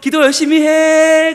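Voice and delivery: high, stretched parting holler; acted long-distance call. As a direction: shout advice back over the water, slowly. Calling back while rowing away.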